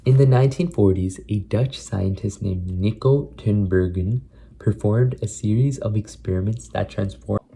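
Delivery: slow, measured book reading; careful read-aloud. Acted. Vlogger practising articulation from a science book, careful read-aloud. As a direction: read each word out deliberately.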